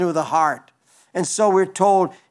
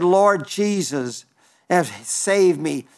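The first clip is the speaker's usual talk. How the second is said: slow, lower, pleading prayer; slow hushed plea for rescue; 3 semitones lower, slower than usual. Acted. Peter retold, pleading as he sinks.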